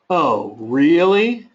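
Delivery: drawn-out surprised "Oh, really?"; surprised and curious. Shown as a demonstration. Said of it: "I could be truly surprised and want to learn more".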